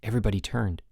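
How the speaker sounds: usual speaking voice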